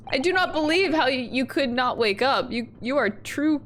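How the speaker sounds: put-on rough go at a stern Russian accent; attempted Russian accent. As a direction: accuse in a shaky-quality Russian accent. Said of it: "I'm not very good at Russian accents".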